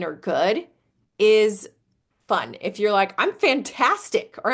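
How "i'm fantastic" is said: playful. Shown as a demonstration.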